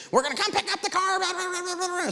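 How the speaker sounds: mock frantic high-pitched tirade; crazed outburst. Collector threatening to repossess a car, mock hysterical rant. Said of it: "bounced off the walls, went crazy".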